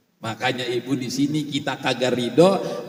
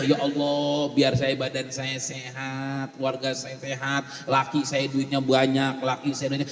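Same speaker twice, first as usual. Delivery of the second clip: soft, low murmured plea; quiet prayer; 3 semitones lower, 6 dB quieter than usual. Acted. Mother praying instead of cursing, soft. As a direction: pray softly for family and money. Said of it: "Langsung aja".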